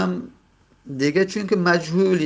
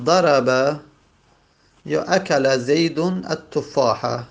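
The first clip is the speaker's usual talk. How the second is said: slow careful reading; slower than usual. Shown as a demonstration. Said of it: "مانند مثلاً".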